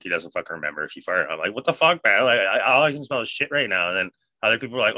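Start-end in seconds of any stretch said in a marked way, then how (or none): 1.5-3.9 higher, louder retold disbelief; acted-out indignant complaint; mock indignation. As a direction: exclaim it in exasperated disgust. Retelling his disgusted reaction to smell.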